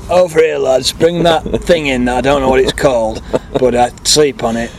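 lightly put-on Yorkshire accent; a hint of Yorkshire workman. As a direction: call the lads over in a mock Yorkshire voice. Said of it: "don't know why he's Yorkshire".

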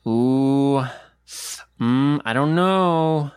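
a book gasping over the plot; nosy book voice. Pretend. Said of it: "every chapter would just be like".

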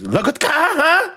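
high shrill scolding mom; scolding Filipino mom. Retold or imitated. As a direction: threaten like an angry mom. Voicing Filipino mom howler.

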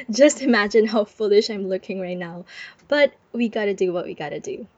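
muffled under a blanket. Real, not acted. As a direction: talk from under a warm blanket. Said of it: "recording this under a blanket".

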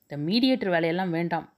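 sharp, fast angry retort; quick cutting anger. Acted. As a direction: snap at her to stop meddling. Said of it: "என்றவள் கோபத்துடன்".

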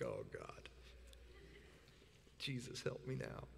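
low, very soft prayer under the breath; muttered plea. Retold or imitated. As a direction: mutter a helpless plea to heaven. Retells his exasperated muttered prayer.

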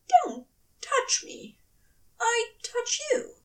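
commanding angel. A narrator's reading.

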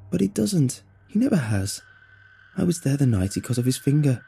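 lightly voiced young woman, distressed and self-blaming; a hint of a worried girl blaming herself; Roxy, upset. Roxy's upset lament.

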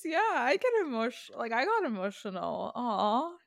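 choked up but laughing, moved by kind words; teary and touched. Real, not acted. Friend tears up after podcast co-host's praise, teary laughing voice. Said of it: "Wait, she's crying".

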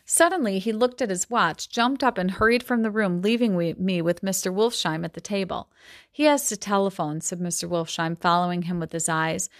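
measured novel reading voice; story reading. A narrator's reading. Teacher reading a Gatsby passage aloud, steady storytelling. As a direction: read the passage to the class.

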